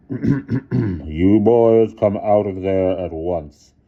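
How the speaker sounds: very slow, loud command; stern headmaster. A narrator's reading. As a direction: order them out firmly. Headmaster ordering boys out.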